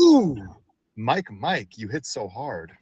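loud pained ooh trailing off; hurt groan. Shown as a demonstration. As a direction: groan like you took a punch.

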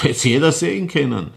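mit Lachen, höher und lauter; lachend. Acted. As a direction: mit unheimlichem Auflachen sagen. Mörder lacht über Messer. (lachend gesagt)

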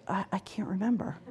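very soft, almost whispered quote; retold quiet admission. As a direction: voice the client's admission under the breath. Voicing a tearful client's admission.

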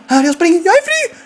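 calling for ball. Retold or imitated.

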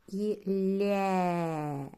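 Лє with a long soft л; long palatal л before є; drawn-out soft Лє. Shown as a demonstration. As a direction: stretch the soft л in Лє. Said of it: "е, один звук".

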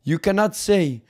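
emphatic mock French decree, softening at the end; put-on French accent. French envoy banning insults to France, French accent. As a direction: forbid it as a hammy French negotiator. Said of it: "Fuck this French accent".

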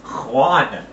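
garbled prank caller; muffled, hard to understand. Pretend. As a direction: prank call through a muffled voice. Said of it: "kinda sounded like you with a muffled voice".

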